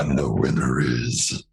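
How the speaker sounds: low, slow demon voice; demonic voice. Pretend. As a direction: announce it like a demon. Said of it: "Just another demonic voice".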